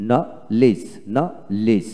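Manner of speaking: নলেজ broken as "no... lij", no d; split syllables. Shown as a demonstration. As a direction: pause between the two syllables of নলেজ. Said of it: "আপনার সন্তানকে পড়ান এইভাবে". (ভেঙে ভেঙে নলেজ, ডি ছাড়া)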